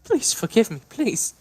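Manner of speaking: high, tearful apology; remorseful. Acted. Davine apologizing to Snarf, tearful and horrified. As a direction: beg forgiveness through tears.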